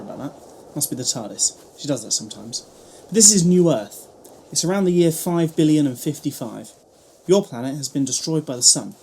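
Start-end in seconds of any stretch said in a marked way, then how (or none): 3.1-8.9 loud, proud reveal; grand announcement. Acted. Doctor proudly announces New Earth to his companion, loud. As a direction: present the planet like a showman.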